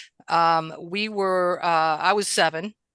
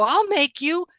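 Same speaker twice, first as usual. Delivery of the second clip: retold defiance; 10 semitones higher than usual. Child defying a big bully.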